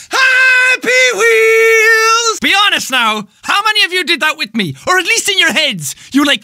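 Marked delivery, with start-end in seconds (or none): 0.1-2.4 long, stretched-out yell of the show name; drawn-out shout. Acted. A YouTuber yelling his show intro at the fans. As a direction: bellow it slowly and hold every vowel.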